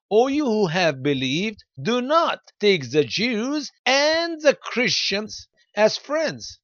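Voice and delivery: "do not" and "and" stretched high and slow; emphatic verse reading. Shown as a demonstration. Preacher reading a verse to listeners word for word, with heavy emphasis. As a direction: read it out slowly, leaning on "do not take the Jews and the Christians". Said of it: "I'm just reading and emphasizing".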